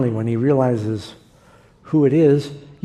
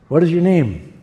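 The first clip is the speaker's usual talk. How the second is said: firm demand; 3 semitones higher, 5 dB louder than usual. Retold or imitated. God demanding confession.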